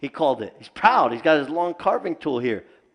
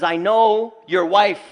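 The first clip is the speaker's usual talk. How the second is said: slow and louder, each word a threat; menacing jinn threat; 4 semitones higher, 5 dB louder, slower than usual. Retold or imitated. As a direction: lean into it slowly like a stalking jinn. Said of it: "He says".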